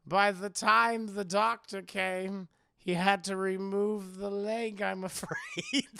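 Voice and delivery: slow, measured mock sympathy; creepy host's careful storytelling; sinister host. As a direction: draw out the false explanation, cracking up at the end. The host retelling his false spider story.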